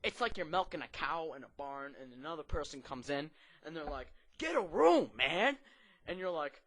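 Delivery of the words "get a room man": high, loud heckle; mock outraged yell. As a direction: call out in exaggerated disgust. Acts out outraged person walking in.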